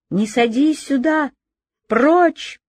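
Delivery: high, shrill, frantic yell; hysterical shout. Acted. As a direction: scream at him hysterically. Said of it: "раздался истерический крик".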